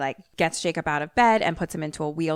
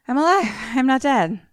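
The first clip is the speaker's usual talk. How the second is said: frantic insistence; 7 semitones higher, 4 dB louder than usual. Retold or imitated. Patient insists he's alive.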